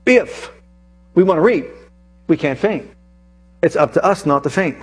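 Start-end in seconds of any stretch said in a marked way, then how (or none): 0.0-0.5 "if" jumped high and held alone; lone "if" sung up high; stress on if. Shown as a demonstration. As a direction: punch the little word "if". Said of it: "so if".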